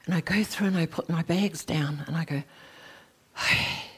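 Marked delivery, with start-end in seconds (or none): 3.4-3.9 raised, ringing cry of arrival; overjoyed homecoming. Retold or imitated. Arriving in the vast hall, she cries out in wonder. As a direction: let the joy of coming home lift the voice.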